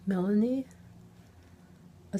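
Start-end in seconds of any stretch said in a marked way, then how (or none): 0.1-0.7 louder second call, rising. Acted. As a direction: call the name again, louder. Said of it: "I called out".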